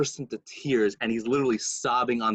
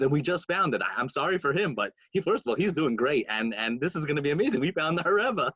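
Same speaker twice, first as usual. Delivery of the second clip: lightly raised, eager delight; excited announcement; 5 semitones higher than usual. Retold or imitated. Friends telling the Rebbe they found him, excited. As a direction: build to a higher, thrilled finish.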